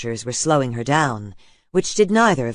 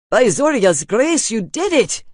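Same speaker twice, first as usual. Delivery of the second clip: joyful exclamation; 9 semitones higher, 6 dB louder than usual. A narrator's reading. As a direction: burst out in relieved delight. Father sees son has shifted.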